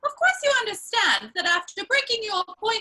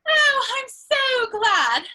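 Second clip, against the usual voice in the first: slow, louder, gushing oh I'm so glad; drawn-out girlish glee; delighted; 5 dB louder, much slower than usual. Acted. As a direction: savour the delight. Delighted reaction to the proposal.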